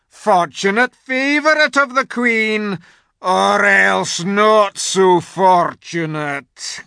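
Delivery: high, loud, slow sinister wolf. A narrator's reading. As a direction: menace him like secret police. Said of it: "chief of the witches' secret police".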